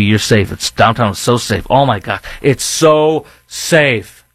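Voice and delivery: sarcastic drawn-out so safe; mock the chief's empty reassurance, stretching it; mocking police chief. Host sarcastically mimicking police chief claiming downtown is safe. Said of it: "the police chief says to you".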